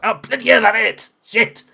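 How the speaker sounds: high-pitched yelp of pained surprise; pained exclamation. Acted. Bradley nicked in the arm, pained cursing. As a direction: cry out as the bullet nicks you. GM acts Bradley hit by bullet.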